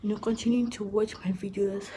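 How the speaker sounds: breathless, puffing between words; out of breath. Real, not acted. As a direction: talk while catching your breath. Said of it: "I'm out of breath".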